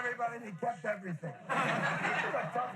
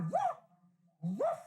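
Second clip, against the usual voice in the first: imitated woof. Imitates skunk arriving in the story.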